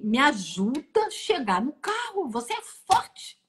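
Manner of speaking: slow, stretched plea climbing high at the end; retold urgent plea. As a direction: imitate someone urging her to be strong. Retold husband urging her on.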